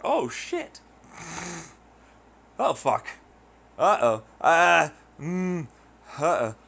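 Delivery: rising alarm, high then loud; mock panic. Tourist in the wrong neighborhood, mock panic. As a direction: act out sudden dread of being lost. Realizing he's in wrong place.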